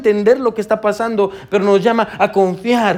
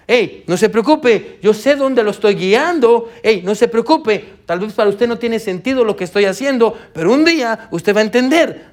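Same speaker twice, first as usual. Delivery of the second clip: reassuring God voice; 3 semitones higher than usual. Acted. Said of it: "La voz que dice".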